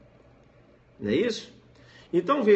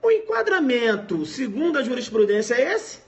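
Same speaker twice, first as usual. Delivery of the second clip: much higher and louder, pointed quiz question; probing examiner; 7 semitones higher, 5 dB louder than usual. Acted. Examiner quizzing the candidate in the oral exam, much higher and pointed. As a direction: test the student with a catch question. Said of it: "vou te chamar no percebe e vou dizer".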